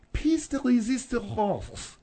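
French pronunciation dropped into English; French phrase. Acted. Woman reaching for the French expression, French accent. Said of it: "what is the French?".

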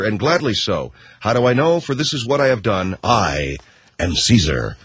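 measured, oratorical Shakespeare recitation; dramatic reading. Acted. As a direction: declaim it like a speech from a Roman play. Reads out mock Shakespeare speech.

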